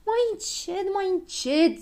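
high, pained plea; crying out. A narrator's reading. Girl whose plaster is being pulled off, crying out high. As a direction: call out to stop the rough handling. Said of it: "strigă Ochii Albaștri".

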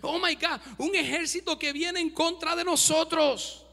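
a hammed-up fright at the sight; startled servant. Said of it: "se asusta y dice". (siervo asustado, exclamación cómica)

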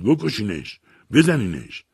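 high, urgent shouted command; shouting. Retold or imitated. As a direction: yell the order to attackers, pitch leaping. (فریاد دستوری با صدای بالا)

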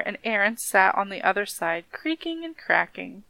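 measured storybook reading; story narration. A narrator's reading. Reading a corpse tale to a friend, story narration. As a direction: read it aloud like a spooky folk tale.

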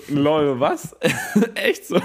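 rising mock disbelief; mock surprise. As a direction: sound taken aback. Quoted surprised reaction.

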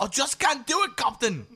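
laughing, overdone Scottish imitation; copying the Scotty line. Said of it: "He was trying for Sean Connery".

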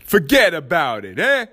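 a playful hint of a New York Italian accent. Podcaster jokingly signs off a point in mock Italian accent. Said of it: "That's my Italian accent".

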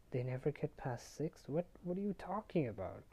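incredulous echo, pitch climbing high; retold baffled question. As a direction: repeat it back as a puzzled question. Percy echoes it in disbelief.

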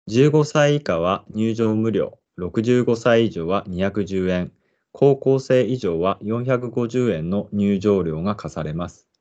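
measured park guide read-aloud; guide narration. Acted. Presenter introducing the park to listeners, guide narration. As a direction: read it out slowly and evenly like an announcer.

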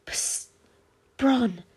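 hushed whisper to get attention. Acted. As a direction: secretly call a friend over, softly. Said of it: "whispered Cam".

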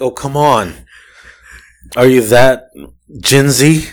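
put-on ranting at the fussy young customers, exasperated. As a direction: roll your eyes through every line. Mocking the customers' questions.

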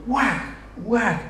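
drawn-out sound-effect whack; imitated whacks. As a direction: act out each strike with the voice. Imitates striking the rock with rod.

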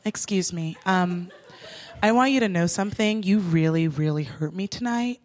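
low, soft, measured lecture; calm earnest speech. Retold or imitated. To the cab driver, a soft mock-earnest speech. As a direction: deliver a calm life-class sermon. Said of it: "very chill words".

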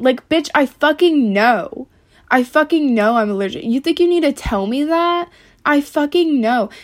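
real irritation, swearing hard; annoyed rant. Real, not acted. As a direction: snap back at the obvious remark. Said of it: "I'm just mad today also".

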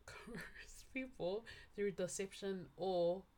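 whispered coerce with slushy s. Real, not acted. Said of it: "my lisp is coming through".

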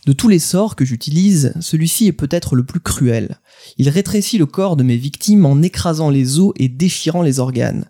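lightly theatrical villain declaiming; a hint of grandiose dubbed villain; Cain, French dub delivery. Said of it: "j'essaie de vous le faire un peu avec l'intonation du doublage français".

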